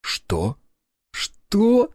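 outraged disbelieving cry; indignant squawk. Acted. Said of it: "возмущённый клёкот".

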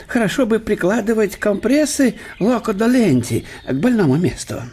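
лёгкий голос весёлого гостя; говорить бодро и со смешком; добродушный немецкий профессор. Acted. Штелин говорит с Ломоносовым. (гость бодро утешает больного хозяина)

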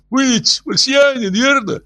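high, quick whistling voice; hurried whistling voice. Acted. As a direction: rush it with hissing, whistling sounds. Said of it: "торопливым, свистящим голосом".

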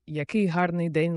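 kindly, gentle delivery of a greeting. Shown as a demonstration. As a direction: say it like a sweet person. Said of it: "лагідним тоном". (лагідним тоном)

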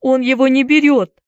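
high, loud whine; tearful complaint. A narrator's reading. Frightened boy complaining about friend, tearful whine. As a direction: whine it plaintively. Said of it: "плаксиво пожаловался Уилл".

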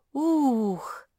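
high, loud gasp of admiration; an admiring, drawn-out exclamation; delighted wow. A narrator's reading. Муля admires all the colours, high and delighted. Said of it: "восхитилась Муля".

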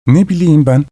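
said through a yawn; sleepy yawn on the words. A narrator's reading. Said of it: "Paşka esniyerek".

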